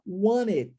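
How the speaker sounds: "want it" run together as "wan-it"; dropped T. Shown as a demonstration. Teacher shows students the linked form, T dropped. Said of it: "omitirmos o som do T".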